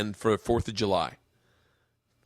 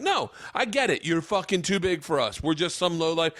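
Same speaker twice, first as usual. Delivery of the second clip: sarcastic berating; 5 semitones higher than usual. Retold or imitated. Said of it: "And he starts berating the kid".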